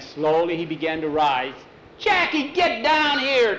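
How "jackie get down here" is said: high, urgent yell to come down; alarmed brother's shouted command; yelled order. Acted. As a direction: yell it slowly up at someone overhead. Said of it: "Tom yelled at him".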